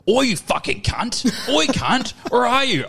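imitating a rowdy mate, pitched high; high-pitched retold phone greeting; boisterous mate calling. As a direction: holler like a mate on the phone, drawn-out opening.

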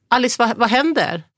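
a mild retold call. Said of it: "ser jag att Pontus ropar". (ropar på avstånd, återberättat)

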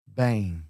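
"bem" stretched out through a smile; slow smiling "bem". Shown as a demonstration. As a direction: smile as you draw out "bem". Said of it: "try to give a smile".

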